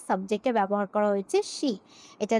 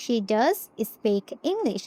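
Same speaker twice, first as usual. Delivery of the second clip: "does" leaned on, slowly; stress on does; much slower than usual. Shown as a demonstration. Teacher repeats the emphatic form with stress on does. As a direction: hit "does" to insist. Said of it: "সে ইংলিশেই কথা বলে".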